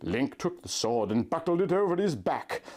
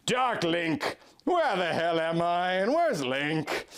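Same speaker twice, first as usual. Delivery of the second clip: sneered; 3 semitones higher than usual. Acted. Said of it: "I sneered".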